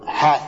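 firm حاث with no y glide; dialect long-vowel variant. Shown as a demonstration. Teacher repeats the Bedouin variant, with long a. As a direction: say حاث as "haath", one long a. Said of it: "لعل هذه لغة بدوية".

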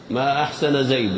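ما أحسن زيد read as ma ahsana Zaydun, negating; negation reading. Shown as a demonstration. Teacher reading the negation for the class, clearly pronounced. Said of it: "نفي الإحسان عن زيد".

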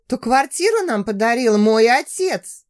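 «мой отец» spoken clearly and pointedly, each word stressed; stress on the last words. A narrator's reading. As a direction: lean on «мой отец» to hurt his pride. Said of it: "Чётко выделила последние слова". (чётко выделяя слова «мой отец»)

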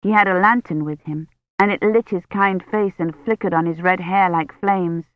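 ordinary delivery, nothing marked

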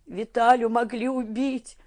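high, slow, despairing cry; Tanya crying after the fight, in despair. A narrator's reading. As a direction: voice near tears in despair. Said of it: "с отчаянием сказала она".

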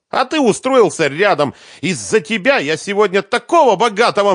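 high, loud furious nagging; angry scolding. Acted. Svetlana scolds the bass guitarist, high and angry. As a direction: tear into him.

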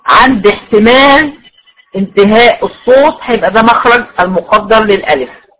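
"عند احتمال" said slowly and weighted; slow down and lean on "عند احتمال"; slow emphatic rule. Shown as a demonstration. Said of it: "هقول إيه بقى؟". (بطء وتأكيد على "عند احتمال")

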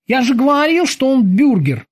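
high-pitched boatswain's exclamation; exclaiming. A narrator's reading. Kiki crows to the others about the prisoner, exclaiming. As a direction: cry it out high, dropping at the end. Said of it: "воскликнул Кики".

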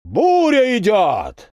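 high, slow, drawn-out yell from afar; distant shout. A narrator's reading. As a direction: bellow it out across the field. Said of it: "кричали где-то уже намного ближе".

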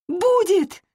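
high, loud defiant cry; shouting. A narrator's reading. Anna shouting at her mother, high and loud. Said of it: "закричала Анна".

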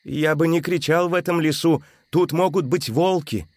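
light high warning; предостерегающе; cautioning. A narrator's reading. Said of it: "заметил Джованни".

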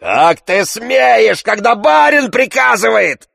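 high, loud, slow outraged yell; Tarantyev shouting. A narrator's reading. Tarantyev yelling at stubborn Zakhar, high loud outrage. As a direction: bellow at the insolent servant. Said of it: "закричал Тарантьев".

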